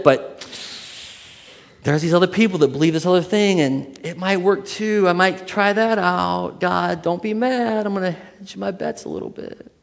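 a fickle believer talking himself into other gods; wavering believer. Retold or imitated. Believer bargaining with God, high and hammed-up.

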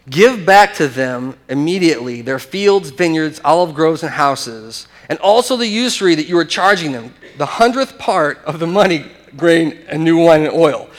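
emphatic, mildly stern reading; demanding. Acted. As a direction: lay down the order word by word. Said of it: "the next sentence is the same way".

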